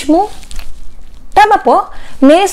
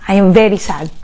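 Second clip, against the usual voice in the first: 1 sad; 5 semitones lower than usual. Real, not acted. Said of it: "just being emotional".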